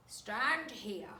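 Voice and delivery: a hint of gruff Mr Twit ordering; Mr Twit voiced. A narrator's reading. Husband ordering his wife to stand by the ring. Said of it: "he said, pointing to the iron ring".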